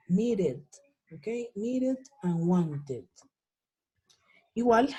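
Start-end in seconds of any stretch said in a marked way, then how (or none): 0.1-0.6 "needed" with a short "id" and tapped D; ending as "id". Shown as a demonstration. Teacher repeats the model, "needed" ending in "id". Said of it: "yo digo needed". 1.5-3.0 slow "needed" and "wanted", both ending in short "id". Shown as a demonstration. Teacher recaps both examples, "needed" and "wanted" ending in "id". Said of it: "las voy a pronunciar con I D".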